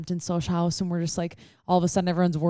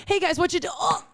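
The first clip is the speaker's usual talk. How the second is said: put-on drunk friend voice; 10 semitones higher than usual.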